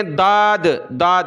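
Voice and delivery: "داد" begun with d like dal; mistaken d sound. Shown as a demonstration. Teacher shows common misreading, "داد" with d. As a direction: say "داد" with d in place of dhad. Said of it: "تو دال نہیں پڑھنا".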